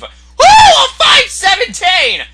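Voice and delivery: high, loud whoop of celebration; thrilled gamer yell; ecstatic shout. Real, not acted. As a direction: scream the score, stretched out. Celebrating a big hit.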